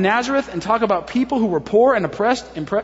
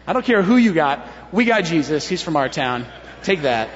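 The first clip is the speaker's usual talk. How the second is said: smug boast dropping lower at the end; proud boasting; 3 semitones lower than usual. Acted. Townspeople bragging to rival towns, proud. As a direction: play the trump card, settling down onto it. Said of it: "These people are proud".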